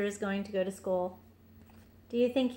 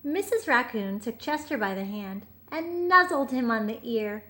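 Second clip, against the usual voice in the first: put-on gentle read-aloud for a child; storybook narration. A narrator's reading. Parent reading a bedtime picture book, gentle.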